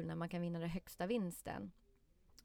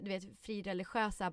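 ordinary talk, nothing marked

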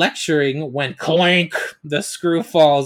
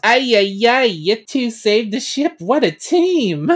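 excited robot sidekick; 6 semitones higher than usual. Acted. Robot Alpha praises the girls.

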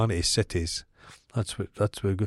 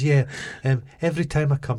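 higher, lightly imitated posh American accent; 5 semitones higher than usual. Retelling the visiting woman's complaint, hint of posh American accent. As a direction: mimic a Scot with an American touch. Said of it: "had this kind of posh American".

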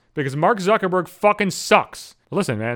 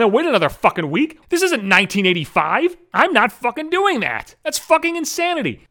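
exasperated rant; 5 semitones higher than usual. Real, not acted. Ranting about weekly releases.

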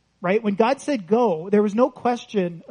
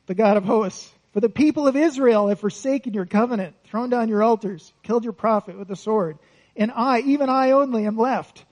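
Elijah whining the same excuse over; mild whine, stubborn and sorry for himself; whiny complaint; 2 semitones higher than usual. Acted. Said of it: "Didn't learn a thing".

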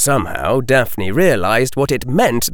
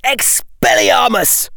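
high, drawn-out spell shout; 8 semitones higher, slower than usual. A narrator's reading. Draco casting at Hermione while dodging, shouted. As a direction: hurl the disarming charm. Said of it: "shouted Draco".

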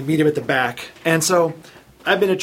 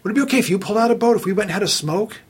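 quick, higher, put-on voice of a shifty trainee; sheepish trainee; 5 semitones higher, faster than usual. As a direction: rattle off the request like a hopeful slacker. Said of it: "And the guy goes".

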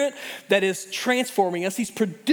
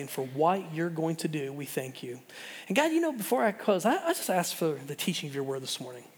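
quiet, earnest prayer voice, softer than his preaching; 4 semitones lower, 4 dB quieter than usual. Acted. Pastor praying over teachers and students before the sermon, soft and earnest. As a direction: pray gently over the congregation. Pastor prays for school year.

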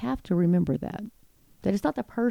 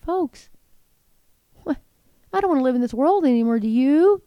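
fed-up outburst; 5 semitones higher, 5 dB louder than usual. Real, not acted. Exasperated rhetorical outburst to viewers.

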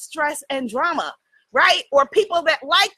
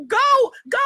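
mock scream; 9 semitones higher than usual. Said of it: "I was, like, screaming".

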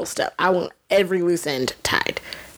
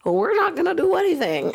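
Grand Maester voice; 11 semitones higher than usual. Retold or imitated. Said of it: "the Grand Maester's like".

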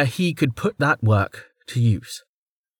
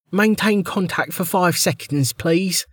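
higher, flat official voice; bored official; 7 semitones higher than usual. A narrator's reading. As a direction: recite it like a routine order. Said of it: "the woman said".

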